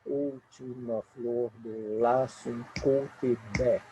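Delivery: slow, cut off on "bé"; stopping at last stress. Shown as a demonstration. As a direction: read slowly and stop dead on "bé". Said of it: "a sílaba tônica que vai marcando o ritmo".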